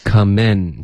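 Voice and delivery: teacher models Come in; tongue-tip n in Come in. Shown as a demonstration. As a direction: Come in ending on a front n, no ng. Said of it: "结尾的N的音".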